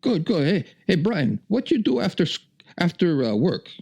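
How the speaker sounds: put-on very high, butchered Asian accent; Roger's Asian accent. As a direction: badly imitate a friend's heavy Asian accent. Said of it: "I'm just butchering the accent".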